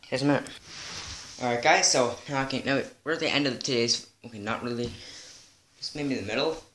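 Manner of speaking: gasping between phrases; winded, catching breath. Real, not acted. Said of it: "I'm out of breath".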